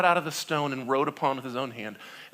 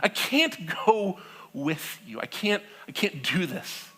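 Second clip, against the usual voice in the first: laughing exasperation; 5 semitones higher than usual. Acted. God giving up, laughing.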